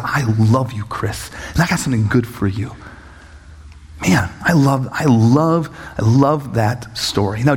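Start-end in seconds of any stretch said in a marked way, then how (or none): 0.0-2.8 lower, tender retold reassurance; lightly voiced loving God; God's loving voice. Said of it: "God still comes and says".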